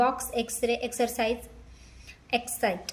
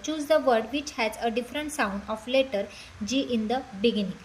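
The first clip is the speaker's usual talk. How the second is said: English words drawn out slowly; slow question reading; much slower than usual. Shown as a demonstration. Teacher reading the question to students, slowly. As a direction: read it out slowly for the class.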